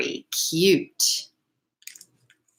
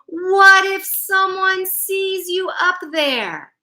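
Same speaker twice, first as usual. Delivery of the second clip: tough dog voice; 9 semitones higher, slower than usual. Acted. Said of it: "Mike shouted".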